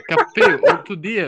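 sudden high laughing outburst; excited burst. Real, not acted. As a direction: blurt it out with a laugh. Contando história empolgado. (explosão animada rindo)

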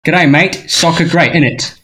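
playful mock British slang accent; mock British-Aussie. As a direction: ham up a G'day mate innit bloke. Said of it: "Getting pretty Britain right now".

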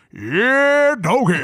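big rasp-free showman catchphrase, stretched out; Big Citric impersonation. Acted. Uncle showing off to his niece, playful impersonation. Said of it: "you sound just like Citric".

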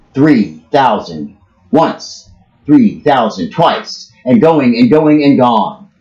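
slow, drawn out going once, twice; slow auctioneer count. Retold or imitated. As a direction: stretch out the final call.

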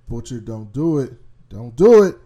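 pleading that builds to a loud yell; begging Butcher to stop, rising to a shout; pleading yell at screen. Retold or imitated. Fan yelling at Butcher on screen, pleading then shouting.

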